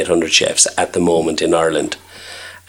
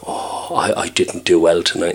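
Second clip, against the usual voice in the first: soft, sighed-out admission; dejected; 5 dB quieter than usual. Retold or imitated. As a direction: quietly imitate a downhearted young chef. Young chef's dejection after busy night.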